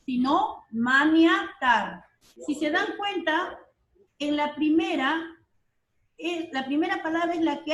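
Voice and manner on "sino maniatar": slow, clear maniatar with the i; correct word. Shown as a demonstration. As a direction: stress the i in maniatar slowly. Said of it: "no conoces una palabra mano atar". (maniatar, lento y claro)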